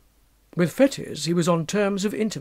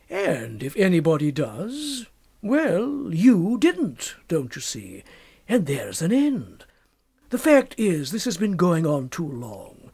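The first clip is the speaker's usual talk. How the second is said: put-on knowing young doctor. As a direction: sound amused and sly. Narrator voices Macfarlane.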